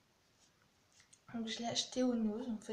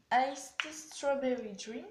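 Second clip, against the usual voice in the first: French-accented English brand name; 5 dB louder, slower than usual. Real, not acted. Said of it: "Excusez-moi pour mon accent anglais".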